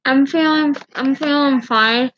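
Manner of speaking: talking through mouth full of gauze; words muffled by gauze. Real, not acted. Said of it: "I just put gauze in my mouth".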